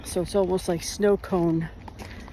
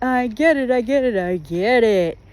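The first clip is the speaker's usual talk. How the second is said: louder, higher mock overconfidence; retold cockiness; 4 semitones higher, 5 dB louder than usual. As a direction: imitate yourself being too sure of it, voice pushed up. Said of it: "I got very cocky and I went".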